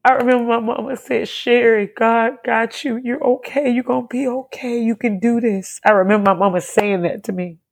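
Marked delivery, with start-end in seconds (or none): 1.3-5.8 soothing. Retold or imitated. Mama comforting her, retold.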